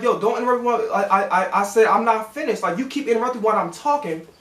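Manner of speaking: firm but civil objection, conversational volume; respectfully firm. Retold or imitated. Worker retelling a pushback to supervisor, respectfully firm. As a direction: stand your ground without getting heated. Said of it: "I was being respectful".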